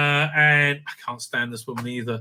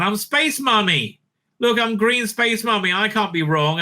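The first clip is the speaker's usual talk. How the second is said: mock Space Mummy; 5 semitones higher than usual. Mocking Space Mummy boasting.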